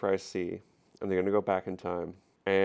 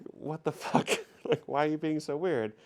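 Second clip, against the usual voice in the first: mock outraged Yar; 7 semitones higher than usual. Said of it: "Yar's like".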